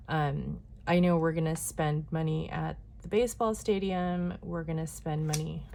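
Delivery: talking while being jostled; shaky, bumpy ride. Real, not acted. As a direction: voice jostled by shaking. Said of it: "Sorry for the shaking".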